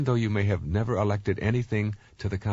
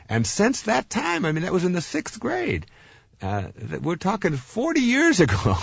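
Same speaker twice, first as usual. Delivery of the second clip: emphatic disbelief; 10 semitones higher than usual. Real, not acted. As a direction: stress how long ago it was. Stressing how long ago.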